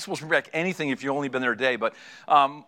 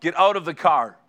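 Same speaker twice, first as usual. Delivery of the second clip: firm, slightly louder command; forceful order; 4 dB louder than usual. Acted. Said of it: "more forceful".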